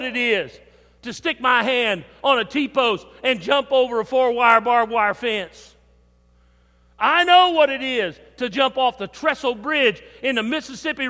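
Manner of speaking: fervent revival preaching. Acted. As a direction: drive it home from the pulpit. Preaching at full force.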